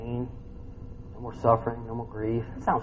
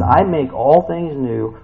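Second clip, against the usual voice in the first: very slow, louder solemn declaration; Jesus speaking; 2 semitones higher, 6 dB louder, much slower than usual. Acted. Preacher voicing Jesus' promise, slow solemn proclamation. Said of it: "This is Jesus talking".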